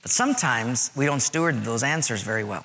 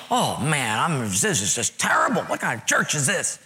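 mock disgusted grumble; upset complaining. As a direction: play a fed-up churchgoer. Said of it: "we'll get a little upset".

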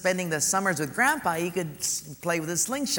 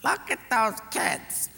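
breathy hushed name, then higher, slow wistful wife; wife's voice; 5 semitones higher, slower than usual. Retold or imitated. Wife nudging her husband, wistful and slow. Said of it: "the wife says".

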